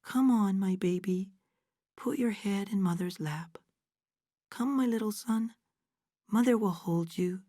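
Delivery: a girl playing mother, gentle and tender; soft motherly tone. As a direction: soothe him like a little son. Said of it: "She put a soft tone in her voice".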